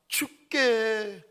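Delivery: very slow, stretched word 죽게; drawn-out emphasis. Shown as a demonstration. Preacher stretching 죽게 for the congregation. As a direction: draw out 죽게 slowly. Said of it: "이 단어 보시겠습니까?".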